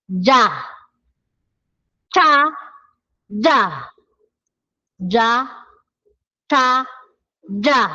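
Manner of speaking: Cha with a strong puff of air, ja tense; Korean j and ch sounds. Shown as a demonstration. Teacher drilling Korean affricates, aspirated cha. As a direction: contrast Cha and ja clearly. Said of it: "So, J".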